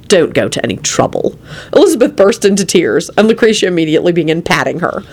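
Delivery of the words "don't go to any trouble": low, composed politeness; calm. A narrator's reading. Quentin to overwrought Elizabeth, calm. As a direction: say it calmly, pitched down. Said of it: "Quentin replied calmly".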